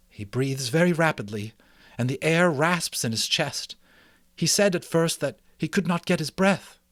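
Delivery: a worried mouse mother, relieved to see him. Acted. Mrs Frisbee describes symptoms.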